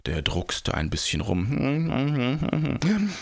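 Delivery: hemming and hawing. A narrator's reading. Giant hems and haws, voiced hum.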